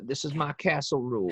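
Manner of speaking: hint of a folksy presidential impersonation; George W. Bush. Podcaster riffing on castle law, light Bush impression. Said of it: "That's a pretty good Bush".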